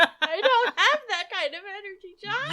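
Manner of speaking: light cartoon character voice; hint of a cartoon voice. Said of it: "me sounding like a cartoon character".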